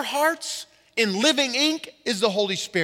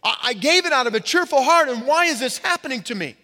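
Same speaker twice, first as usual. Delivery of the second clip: imitated complaint; 4 semitones higher, faster than usual. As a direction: voice a wounded believer pleading with God. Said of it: "look back and say".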